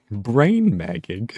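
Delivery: slow, drawn-out "Brain magging" rising in confusion; baffled question. Real, not acted. Streamer baffled by a chat word, slow puzzled question. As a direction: say it like the word makes no sense.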